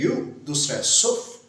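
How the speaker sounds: यूसुफ in two parts, यू, then सुफ; split into syllables. Shown as a demonstration. Teacher splitting the name यूसुफ for students, syllable by syllable. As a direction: say each syllable of यूसुफ on its own. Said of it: "part करके देखे जाए तो दो बनते हैं".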